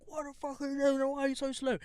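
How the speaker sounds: high-pitched mock road rage; imitated mouthing off. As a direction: mouth off like an irate driver, without extra volume. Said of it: "he's mouthing off".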